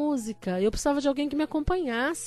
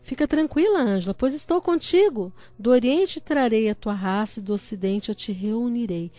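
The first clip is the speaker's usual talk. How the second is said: declaimed scripture promise; 2 semitones lower, 3 dB louder than usual. Retold or imitated. Recites God's promise to her. (promessa bíblica declamada com firmeza)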